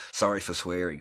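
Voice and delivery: a loud, cheeky sorry; loud apology. Real, not acted. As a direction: blurt it out loud and half-joking. Repeated apology, first take louder.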